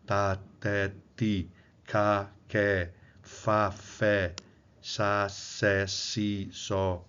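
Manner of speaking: "Ta, te, ti" as separate, evenly spaced syllables; "sa, sé, si, só" detached, each consonant voiceless; interrupted voicing. Shown as a demonstration. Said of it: "A gente interrompe a vibração".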